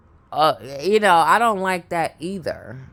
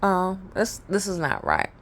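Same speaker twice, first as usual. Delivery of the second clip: quiet inner thought; 6 dB quieter than usual. Retold or imitated. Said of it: "thinking to myself".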